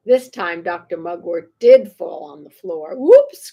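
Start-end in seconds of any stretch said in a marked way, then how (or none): 3.0-3.5 high, loud oops; loud, high "Whoops"; embarrassed cry. Acted. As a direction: blurt it out, caught red-faced. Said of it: "cried Froggy".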